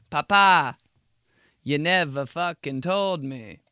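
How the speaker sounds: high, slow protest; whiny kid. Retold or imitated. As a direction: plead back at dad. Kid talking back to dad.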